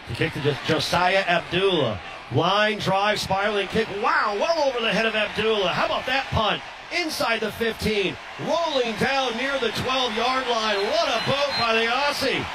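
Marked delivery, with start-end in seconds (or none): 4.0-12.4 rising, thrilled play-by-play as the punt sails on; excited call. Real, not acted. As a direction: call it like you can't believe the boot. Huge punt sails over returner.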